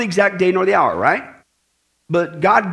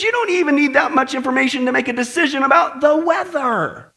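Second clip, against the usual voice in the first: higher-pitched incredulous chiding; mock exasperation; 5 semitones higher than usual. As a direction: chide them as if it's obvious. Acting Jesus chiding over the weather.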